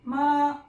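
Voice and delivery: 마 said light and toneless; neutral tone ma. Shown as a demonstration. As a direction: drop the tone on 마, short and light. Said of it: "이런 때 경성으로 돼요".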